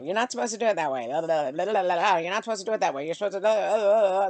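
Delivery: mocking rules. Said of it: "I know".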